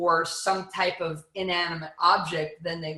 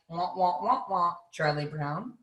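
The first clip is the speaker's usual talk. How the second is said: mock gibberish. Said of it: "it's gonna sound like".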